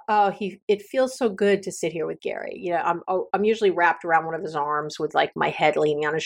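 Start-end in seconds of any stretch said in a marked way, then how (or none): 0.1-2.5 tender appreciation. Shown as a demonstration. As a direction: let the warmth settle in. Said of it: "I really think about".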